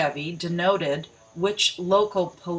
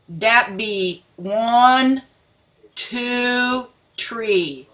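mock folksy voice; 5 semitones higher, 5 dB louder, much slower than usual. Mocking the three R's.

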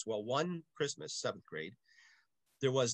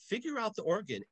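priest's order; 9 semitones higher than usual. Retold or imitated. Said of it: "he says".

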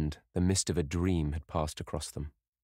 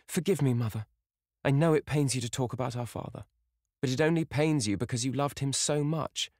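put-on higher, coaxing girl's voice; pleading daughter; 7 semitones higher than usual. A narrator's reading. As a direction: soothe and plead with her mother.

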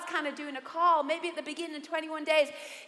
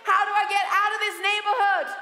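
higher, louder call for help; humbled plea; 5 semitones higher, 4 dB louder than usual. Retold or imitated. Lost driver swallowing pride, calling out the window loudly. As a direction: shout out the window, begging directions. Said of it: "swallow the pride and say".

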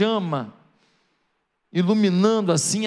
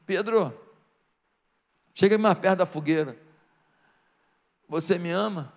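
gentle questioning; 4 semitones lower than usual. Acted. Jesus gently questions Peter.

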